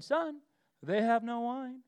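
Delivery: mother's pointed nudge, son first; knowing hint. Shown as a demonstration. Mary nudging her son at the wedding, knowingly. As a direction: say it like a loaded hint. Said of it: "That's how this is supposed to be read".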